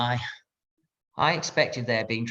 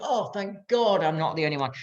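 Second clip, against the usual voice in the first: higher-pitched mock relief; gushing inner voice of relief; relieved thought; 5 semitones higher than usual. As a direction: act out a surge of relief. Prisoner's relieved thought, acted out.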